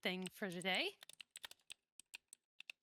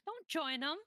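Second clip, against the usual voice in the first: loud protest; 8 semitones higher, 4 dB louder, slower than usual. Acted. Protests at the others joining in.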